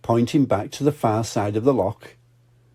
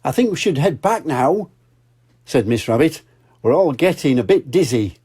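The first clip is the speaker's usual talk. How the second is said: Miss Rabbit; 4 semitones higher than usual. Acted.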